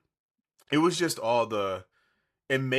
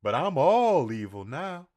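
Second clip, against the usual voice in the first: evil cartoon dog voice; 7 semitones higher than usual. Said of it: "all I hear in her head".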